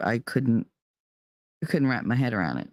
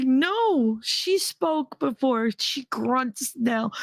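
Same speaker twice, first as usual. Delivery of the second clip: desperate insistence; 10 semitones higher, much slower than usual. Retold or imitated. Insisting to the doctors.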